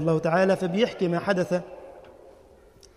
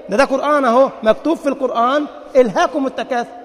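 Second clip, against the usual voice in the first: indignant protest; 5 semitones higher, 6 dB louder than usual. Retold or imitated. Man protests indignantly, laughing.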